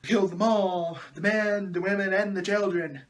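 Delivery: lightly hammed-up whiny confession; mock whining. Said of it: "to whine some more".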